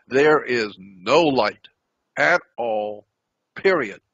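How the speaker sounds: "no light at all, period" said slowly, with pauses before "at all" and "period"; emphatic, spaced-out words. Real, not acted. Telling listeners how dark the desert is, "no light at all, period" slow and emphatic. Stressing absolute darkness of the desert.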